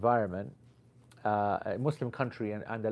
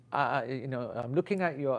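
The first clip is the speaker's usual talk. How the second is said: put-on Pakistani accent. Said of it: "let's drop the Paki accent".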